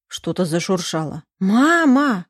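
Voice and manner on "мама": louder, higher cry of mama; alarmed daughter shouting for her mother, louder and higher. Acted. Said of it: "закричала Лиза".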